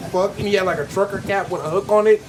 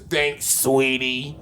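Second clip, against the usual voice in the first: slow creepy purr; 8 semitones lower, 3 dB quieter, much slower than usual. Retold or imitated. Creepy driver voiced in story.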